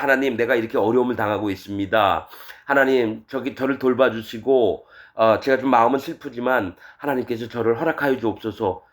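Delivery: lightly acted humble prayer; servant's prayer. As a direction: pray it as a troubled servant.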